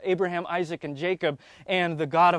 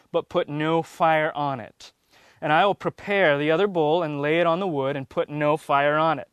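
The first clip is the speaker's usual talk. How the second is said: louder, measured Bible reading voice; scripture reading; 4 dB louder than usual. Acted. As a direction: read it out like a preacher at the lectern. Reads scripture aloud to class.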